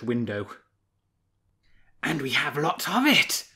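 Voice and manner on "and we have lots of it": proud. A narrator's reading. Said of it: "said Ursa proudly".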